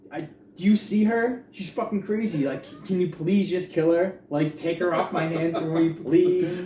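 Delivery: high, loud exasperated begging; desperate pleading. Acted. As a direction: plead at the top of your register, worked up. Acting out husband begging doctor.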